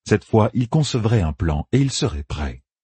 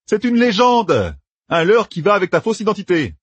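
higher, quick, relishing the tale; Matt spinning a backstory; 12 semitones higher than usual. A narrator's reading. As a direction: reel off the fake biography with gusto. Narrator voices Matt.

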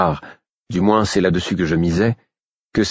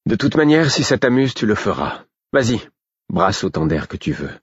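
taunting; 4 semitones higher than usual. Acted. Boy taunting the girl.

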